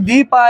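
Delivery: "দি পা" broken into two separate beats; split into syllables. Shown as a demonstration. Teacher shows class how a name divides, split into syllables. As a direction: say "দি পা" one syllable at a time. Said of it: "এনেকৈ আমি ভাগ কৰিছো".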